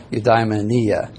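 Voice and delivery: "Eudaimonia" said slowly, you-dye-muh-NEE-uh; careful slow model of "Eudaimonia", stress near the end; accented syllable shown. Shown as a demonstration. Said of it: "does it have a little accent here?".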